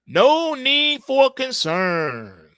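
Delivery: a hint of a smug Fed chairman, drawn out slow; mocking the officials' calm assurance; mock reassuring official. YouTuber mocks Fed chairman: slow, smug reassurance. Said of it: "They've been saying it".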